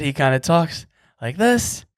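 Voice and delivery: lightly imitated comedian's delivery; hint of a comedian impression; Daniel Tosh. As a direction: mimic a comedian's speech pattern, lightly. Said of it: "me impersonating Daniel Tosh".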